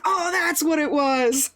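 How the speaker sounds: high, drawn-out cry of realisation; imitated eureka. Boss finally remembers the message, imitated loud realisation. Boss's realisation, acted in anecdote.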